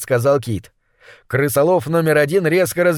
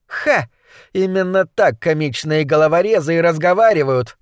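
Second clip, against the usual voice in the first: triumphant; 3 semitones higher than usual. Acted. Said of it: "торжествующе объявила злокозня".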